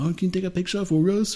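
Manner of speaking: put-on polite Belgian tourist asking a favour, accented. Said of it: "they talk like Jean-Claude Van Damme".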